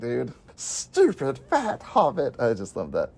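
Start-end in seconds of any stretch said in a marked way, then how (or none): 0.6-2.3 slow, sneering quote of a film villain; sneering movie quote. Retold or imitated. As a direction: drag it out with contempt. Quoting a favourite movie line.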